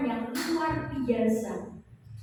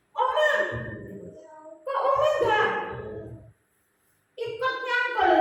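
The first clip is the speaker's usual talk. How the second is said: put-on higher, louder little child asking; child's voice; 8 semitones higher, 3 dB louder than usual. The grandchild asks grandma why she won't dig, in a child's voice. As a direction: play the small grandchild asking innocently. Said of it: "Dia selalu ngomong begini".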